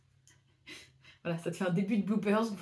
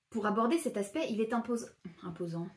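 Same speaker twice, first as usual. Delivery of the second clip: bad news anchor; 4 dB quieter than usual. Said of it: "t'as eu une voix de présentateur télé, euh, nul".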